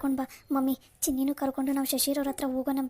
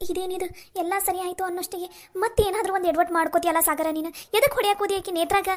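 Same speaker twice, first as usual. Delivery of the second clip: scolding; 4 semitones higher than usual. Acted. Sister scolding brother.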